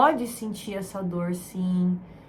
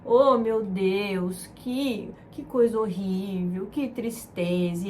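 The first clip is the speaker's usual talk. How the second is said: mock comforting; slower than usual. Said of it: "Você fala".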